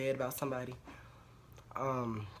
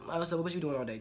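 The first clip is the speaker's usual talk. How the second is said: a hint of accusing girlfriend; lightly voiced prying question, not angry; half-hearted jealous grilling; mock suspicious nagging; 3 semitones higher, faster than usual. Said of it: "don't be like".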